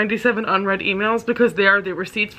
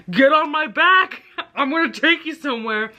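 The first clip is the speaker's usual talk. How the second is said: horse man's command; 6 semitones higher than usual. Retold or imitated. Horse man urging her to climb on, hammed-up and giggly.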